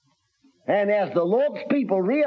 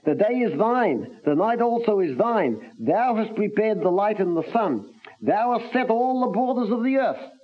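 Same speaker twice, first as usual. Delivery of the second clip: every "Thou" stressed, the rest carried in a raised reading voice; emphatic thou; 4 semitones higher than usual. Acted. Preacher reading the psalm aloud, stressing each "Thou". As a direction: open each line by leaning on "Thou". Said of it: "it's emphatic, this word thou".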